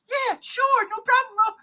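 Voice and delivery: mock heroic Superman voice, sliding down; imitating Superman voice. Host retelling the trailer, doing the Superman voice. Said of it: "This dude put a Superman voice".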